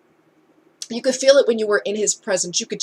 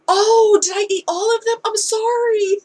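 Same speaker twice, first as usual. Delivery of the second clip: high, surprised little apology; sheepish younger self; 12 semitones higher, 5 dB louder than usual. Retold or imitated. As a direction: play your guilty younger self, pitched up.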